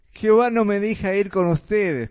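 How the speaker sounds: lightly mimicked child's excuse; a hint of a little boy making excuses; como un chico. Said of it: "como un chico". (excusa de chico, levemente imitada)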